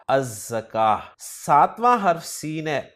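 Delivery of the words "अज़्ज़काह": अज़्ज़काह said az-zakāh, the z doubled; no l sound in अज़्ज़काह; अज़्ज़काह: long double z after a; Arabic article demo. Shown as a demonstration. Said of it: "तो लाम नहीं पढ़ा जाएगा".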